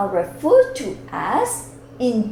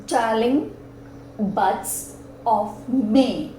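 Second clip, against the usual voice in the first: slow recital, each line drawn out; slow poetic recitation; slower than usual. Shown as a demonstration. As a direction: read the verse slowly to show its beat. Teacher slowly recites sonnet lines.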